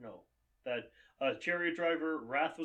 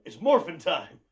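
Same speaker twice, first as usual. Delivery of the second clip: shouted catchphrase; 3 semitones higher, 10 dB louder than usual. Pretend. Quoting Power Rangers catchphrase.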